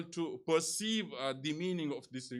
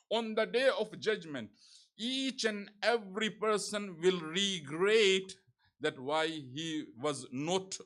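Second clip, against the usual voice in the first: raised, emphatic preaching delivery; sermon recitation; 3 semitones higher, 4 dB louder than usual. Acted. Preacher reciting the sixth Imam's saying to the congregation, solemn proclamation. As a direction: proclaim the sacred saying with weight.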